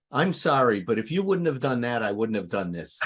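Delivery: blame-shifting mock apology, loud at the start; insincere apology. Speaker mimics a conditional apology to someone, insincere. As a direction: say sorry, then push the blame back. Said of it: "apologies are very insincere".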